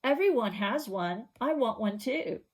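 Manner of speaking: put-on a kid begging parents; whiny kid. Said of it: "when you tell your parents".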